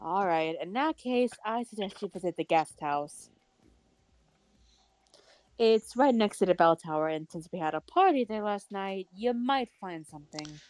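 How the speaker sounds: calm, grown-up lady tone; mature woman voice. Acted. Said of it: "does my voice even work for Setsuka?".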